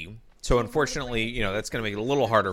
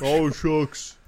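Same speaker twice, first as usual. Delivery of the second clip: screwball banter; 3 semitones higher than usual. Pretend. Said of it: "in an old movie voice".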